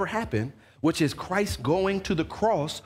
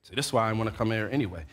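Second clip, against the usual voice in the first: fast, much softer and lower grumble; under your breath; 8 semitones lower, 6 dB quieter, much faster than usual. Retold or imitated. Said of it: "you really say it under your breath".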